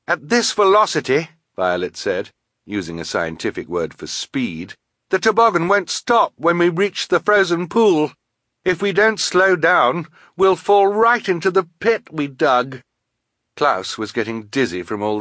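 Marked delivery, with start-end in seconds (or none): 0.1-1.3 put-on high, urgent girl's voice; raised, pressing tone; urgent warning. A narrator's reading. Violet warns on runaway sled. 5.1-12.8 put-on high, alarmed girl's voice; raised, pressing tone; urgent warning. A narrator's reading. Violet warns of crash ahead.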